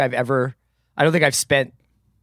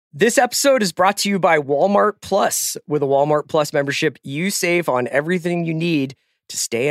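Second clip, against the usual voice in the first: upbeat sponsor ad read; 3 semitones higher than usual. Acted. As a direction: read it like a podcast ad. Reads a second sponsor ad.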